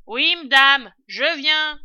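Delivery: very loud, high reply; calling up. A narrator's reading. Servant answering her mistress from the cellar, calling up. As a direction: holler back obediently.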